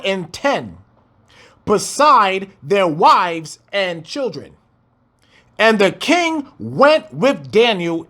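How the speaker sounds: slow, measured Bible reading; scripture reading. Acted. Preacher reads the verse to the congregation, slow. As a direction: lay out the verse slowly.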